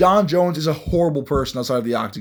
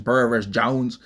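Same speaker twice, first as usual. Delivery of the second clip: mock country twang on Jones; country accent. Shown as a demonstration. Host mimics his own slip, mock country accent. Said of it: "turn into a country person".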